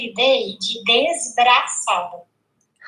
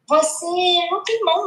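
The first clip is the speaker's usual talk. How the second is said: imitating little girl; 4 semitones higher than usual. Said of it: "Aí ela falou assim pra mim".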